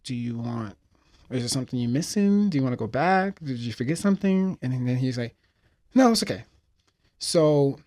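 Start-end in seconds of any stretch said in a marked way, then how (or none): 0.0-4.6 anxious parent calling out; worried parent calling. Retold or imitated. Parent calling after the boy. 5.9-6.5 put-on high, loud carefree kid; cheerful boy brushing it off; boy's bright answer.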